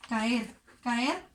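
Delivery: cayó stretched out very slowly; slow demo. Shown as a demonstration. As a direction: drag out each syllable of caer and cayó. (muy lento, marcando las sílabas)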